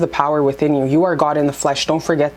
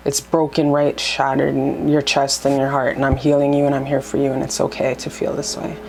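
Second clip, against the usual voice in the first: tender self-talk. Shown as a demonstration. Showing viewers how to comfort their own heart, tender. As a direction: comfort yourself like a loved one. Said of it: "and you say".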